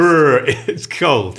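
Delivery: slow, laughing little penguin voice. Pretend. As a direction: shiver it out like a penguin. Penguin voice joke.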